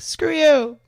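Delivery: high, loud mock defiance; defiant retort. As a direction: toss it out like a cocky brush-off. Imagined defiant retort to doubters.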